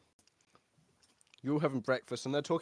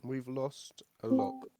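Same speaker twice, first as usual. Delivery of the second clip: slow hushed whisper; 4 dB quieter, much slower than usual. Real, not acted. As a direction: whisper it slowly. Whispered aside.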